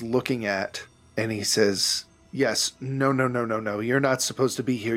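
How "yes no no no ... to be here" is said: hurried insistence, words tumbling out; flustered. Acted. Bookkeeper tells a visitor he shouldn't be here, flustered. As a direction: rattle off the correction, mildly flustered.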